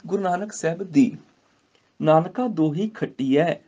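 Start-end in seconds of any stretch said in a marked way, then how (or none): 2.0-3.5 slow chanted scripture line; slow recitation. Shown as a demonstration. Teacher reciting Gurbani line to students, slow chant. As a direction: recite it slowly and reverently. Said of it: "ਖੱਟੀਐ ਐ ਦੇ ਨਾਲ ਉਚਾਰਨ ਹੋਏਗਾ".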